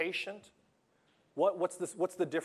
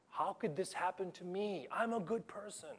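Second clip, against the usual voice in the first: whiny fool; 6 semitones higher, 8 dB quieter than usual. Retold or imitated. Moralistic fool voiced, whiny.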